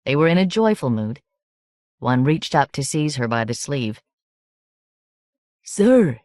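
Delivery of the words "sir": put-on high, whistling drunk voice; slurring tipsy villager, pitched up; drunk man, whistling high voice. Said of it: "He spoke in a whistling high voice".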